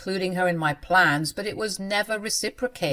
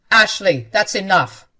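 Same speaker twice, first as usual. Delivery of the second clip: firm warning; 7 dB louder than usual. Acted. Husband stops wife.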